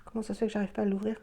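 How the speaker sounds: straining at a tight lid; muttering while forcing a lid open; opening a stuck jar. Real, not acted. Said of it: "elle est super dure à ouvrir".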